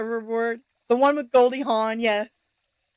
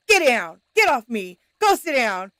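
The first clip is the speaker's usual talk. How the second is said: mild yell at the dogs; mock yell; 4 dB louder than usual. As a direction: firmly order the dogs off, half-yelling. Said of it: "I'd be yelling at my dogs".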